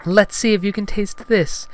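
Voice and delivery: high falsetto heroine; Padme. Acted. Heroine offering fruit to Gungan, high falsetto. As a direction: propose a test in falsetto. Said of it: "she said".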